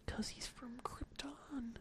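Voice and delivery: sultry Casey Kasem. Acted. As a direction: whisper it like a smooth DJ. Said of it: "like a sultry Casey Kasem".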